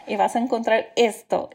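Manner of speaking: lively, amused telling a patient; instructing patient. Retold or imitated. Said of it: "yo estoy diciendo".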